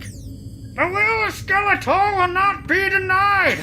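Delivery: very high, slow villain squeal; shrill cartoon villain proclamation; Skeletor voice. Skeletor shouting from afar.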